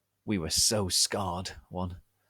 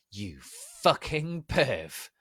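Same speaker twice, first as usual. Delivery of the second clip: evil laughing sneer; 5 semitones higher, much slower than usual. Acted. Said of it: "I said, laughing, with the depths of evil".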